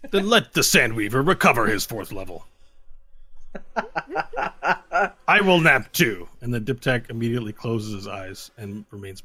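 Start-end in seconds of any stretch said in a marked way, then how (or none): 0.1-6.3 laughing, very slow. Acted. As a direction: chuckle it out slowly. Diptak speaks, laughing.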